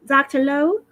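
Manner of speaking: a slightly urgent call, pitch lifted; subtle urgency. A narrator's reading. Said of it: "calls through the phone with a subtle urgency".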